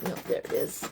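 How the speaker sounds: whispered to herself; breathy aside under breath. Real, not acted. Muttering to herself.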